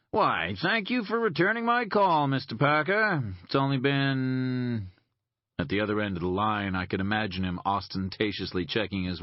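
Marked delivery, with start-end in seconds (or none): 0.1-4.9 mock polite. Boone's mock-polite phone greeting.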